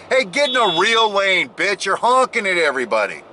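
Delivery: a touch of real road rage, yelling at a biker. Real, not acted. Driver yelling at a honking motorcyclist, mild road rage. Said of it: "Oh, road rage again".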